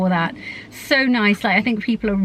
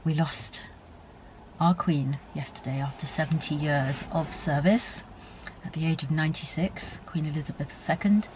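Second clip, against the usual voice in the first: emotional; 3 semitones lower, 8 dB quieter than usual. Real, not acted. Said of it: "I'm still feeling really emotional".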